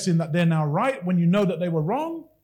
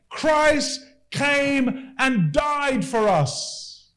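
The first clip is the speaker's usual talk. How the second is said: very slow, solemn reading; solemn scripture; much slower than usual. Acted. Preacher proclaiming Romans to the congregation, slow and solemn. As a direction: draw out each word reverently.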